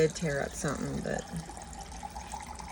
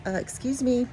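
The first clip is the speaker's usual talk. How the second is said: sassy cat voice; 6 semitones higher, 4 dB louder than usual. Retold or imitated. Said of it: "She's looking at me like".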